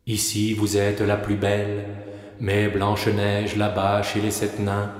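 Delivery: hushed, level oracle; magic mirror. Acted. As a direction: answer softly as an enchanted mirror, barely varying the pitch.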